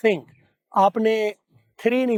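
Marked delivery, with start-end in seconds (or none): 0.1-0.2 "Think" with a breathy th, the tongue under the teeth; "Think" without a hard t; soft breathy TH. Shown as a demonstration. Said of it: "आपने क्या बोलना है?".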